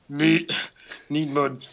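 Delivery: lightly voiced Yoda attempt; a hint of a deep little sage. Reading Yoda's line from the script, deep Yoda attempt. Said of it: "it's like the deepest Yoda ever".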